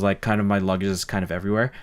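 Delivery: ordinary talk, nothing marked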